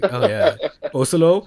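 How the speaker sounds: "Oslo" said as OH-so-lo, rising, high and loud; deliberately mispronounced Oslo. Shown as a demonstration. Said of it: "I wanna say Oslo just to piss him off".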